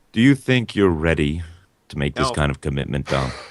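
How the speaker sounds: suave, smooth, silky therapist-like voice. Playing a relationship therapist asking a guest to share: suave therapist voice. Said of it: "with his suave voice".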